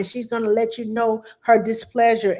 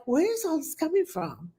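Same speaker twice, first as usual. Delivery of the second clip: amazed; 7 semitones higher, 6 dB quieter than usual. Retold or imitated. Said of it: "And I'm like".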